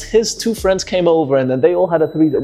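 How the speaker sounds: mock girl, high and fast. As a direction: play the girl, high-pitched and quick. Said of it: "then she".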